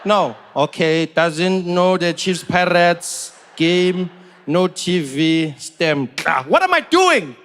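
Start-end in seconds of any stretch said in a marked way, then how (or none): 0.0-6.1 lightly voiced customs officer, slow and drawn out; a hint of a suspicious official ticking boxes; South African official. Customs officer grilling the comedian, slow and deliberate. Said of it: "He's like".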